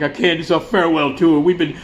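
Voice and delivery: imitating a tearful, whining frontman; hammed-up weepy speech; mock crying. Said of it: "God, he's crying, he's crying".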